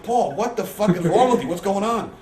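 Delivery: loud, high, incredulous imitation of himself; exasperated retold outburst. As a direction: demand an explanation, acting out exasperation. Retells confronting Paul over prank call.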